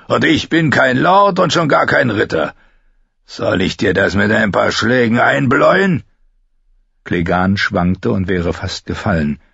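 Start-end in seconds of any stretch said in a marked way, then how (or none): 0.1-6.0 put-on a drunk man goading the girl; drunken taunting. Bluthund droht. (betrunken spottend)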